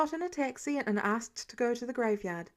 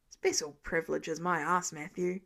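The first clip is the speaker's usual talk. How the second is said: sarcastic; 6 semitones lower than usual. Acted. Sarcastic low retort.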